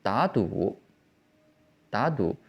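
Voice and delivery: teacher's model of "Da du", first word lifted, second dipped; third tone becomes second. Shown as a demonstration. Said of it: "will change its tone to the second tone".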